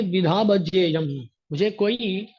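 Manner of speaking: a hint of arrogant Ravana defiance; defiant Ravana. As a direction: declare it like an unbending demon king. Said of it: "ये बोलता है".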